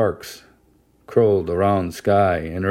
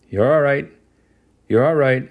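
higher urgent yell of comfort; yelling reassurance; 5 semitones higher, 3 dB louder than usual. A narrator's reading. Mother calling over her screaming daughter, a raised yell. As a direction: call over the child's screams to calm her. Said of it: "I yelled".

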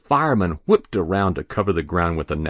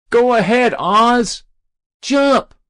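high, loud urging shout; egging him on; 7 dB louder, slower than usual. Acted. Boy in the crowd urging Ozzie to jump, loud high shout. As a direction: cheer him on from below.

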